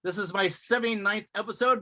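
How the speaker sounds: talking through a numb mouth; numb from the dentist. Real, not acted. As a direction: numb lips after dental shots. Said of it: "My mouth is numb".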